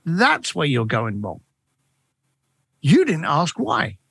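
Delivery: pause, then lay it down slowly and low; calm, knowing reply. Retold or imitated. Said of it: "And I went".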